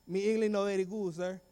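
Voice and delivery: broken English in put-on Spanish accent; faked Spanish-accented English. Pupil fooling the principal, put-on Spanish accent. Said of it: "I forgot how to speak English properly".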